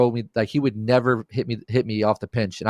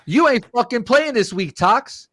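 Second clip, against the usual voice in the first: much higher, scolding imitation; mock-angry, pitched-up order; retold angry threat; 11 semitones higher than usual. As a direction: imitate an irate teammate in a high voice. Acts the angry teammate's threat.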